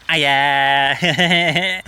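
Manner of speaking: a mild mock camp on-air voice; camp persona. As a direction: switch on for the camera. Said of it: "start putting on this camp persona".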